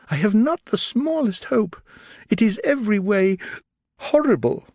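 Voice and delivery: put-on despairing young woman. A narrator's reading. Elizabeth telling Darcy nothing can be done, despairing. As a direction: despair over the lost sister.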